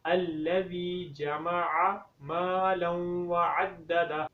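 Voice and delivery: slow, drawn-out melodic recitation; Quran recitation. Shown as a demonstration. Teacher recites the verse for students to repeat, slow tajweed recitation. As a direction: recite slowly, stretching each vowel. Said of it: "دوبارہ سے میرے ساتھ پڑھیں".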